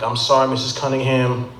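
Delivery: low, measured condolence voice with pauses; grave doctor. Acted. Doctor telling a mom her boy died, grave and low. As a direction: break bad news gently and low. Doctor breaking bad news to mother.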